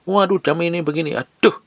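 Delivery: high-pitched mock grumble; imitated self-important fussing. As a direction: act out a fussy, calculating complainer. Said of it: "kayak orang penting aja". (menirukan keluhan sok penting)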